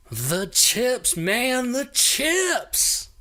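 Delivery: high, loud, rising plea; hammed-up eager informant; excited contact. Contact demands cookie payment.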